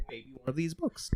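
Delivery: conspiratorial whisper. Real, not acted. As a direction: breathe it like a secret. Teasing gift suggestion, whispered.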